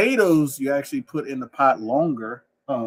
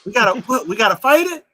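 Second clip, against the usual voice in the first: raised-pitch New Orleans accent, like a laid-back New Yorker; sedated New Yorker accent; 7 semitones higher, 5 dB louder than usual. Shown as a demonstration. Firefighter hears of a fire, laid-back New Orleans accent. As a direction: play an unrushed New Orleans local with New York vowels. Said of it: "We sound like we're a sedated New York, New Yorker".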